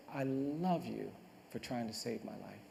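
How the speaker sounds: low, slow, soft retold goodbye; tender farewell. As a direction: say it slowly and quietly, as last words. Condemned man's farewell, retold.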